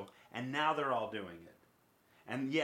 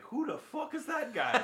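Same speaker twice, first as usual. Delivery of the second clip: much higher, laughing bad Irish accent; imitating McGregor's Irish accent, laughing; mock Irish accent; 12 semitones higher than usual. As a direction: quote McGregor in a hammed Irish brogue. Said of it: "looks back and is like".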